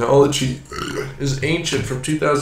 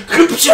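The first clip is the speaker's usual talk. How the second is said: sound effect; 5 dB louder than usual. Retold or imitated. Imitating game sound effect.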